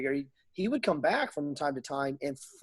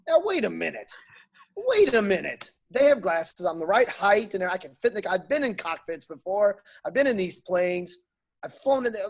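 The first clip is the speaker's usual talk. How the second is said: indignant protest; 4 semitones higher than usual. Retold or imitated. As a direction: push back like you've been cheated. Retold protest at recruiters.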